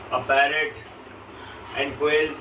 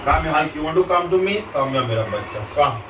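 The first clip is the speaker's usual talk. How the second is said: coaxing calls. Real, not acted. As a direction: call him over firmly but kindly. Coaxing angry dog over.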